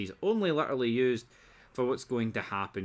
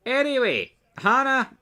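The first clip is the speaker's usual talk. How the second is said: sudden excited burst; 13 semitones higher, 9 dB louder than usual. Real, not acted. Sudden excited jump in recap.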